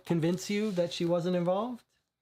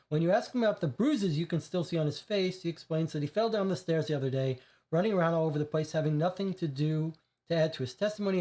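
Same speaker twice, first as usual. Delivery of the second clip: story narration; 3 semitones higher, much faster than usual. A narrator's reading. Player reading the curator's entry to partner, brisk narration. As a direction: read the case text out quickly.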